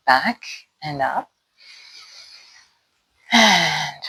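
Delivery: unhurried instruction with long pauses for breath; calm exercise guide, drawing out the cue words; guided movement practice. Real, not acted. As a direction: lead a mindful body scan, pausing for each movement.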